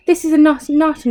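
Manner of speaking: loud high outburst; mock scream. A narrator's reading. Wife with frog on her face, loud high shriek. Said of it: "she screamed again".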